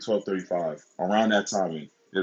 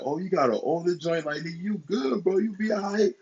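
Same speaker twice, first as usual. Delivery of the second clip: much higher mocking voice; imitating teasing teammates; 9 semitones higher than usual. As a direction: mimic the buddies ribbing him, pitched way up. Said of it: "these niggas is laughing at me, crying. They're like".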